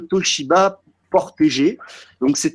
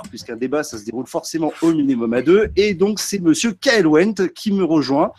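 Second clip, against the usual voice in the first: upbeat presenter voice, pitched up; show host intro; 3 semitones higher than usual. Acted. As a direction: open the episode like a TV host.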